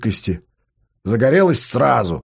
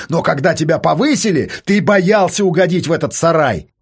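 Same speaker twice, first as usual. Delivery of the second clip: higher, insistent calling out; mildly raised voice, driven and accusing; shouted harangue; 4 semitones higher than usual. Acted. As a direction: hammer each point home over the banging. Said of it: "Артём под эти удары кричал ему".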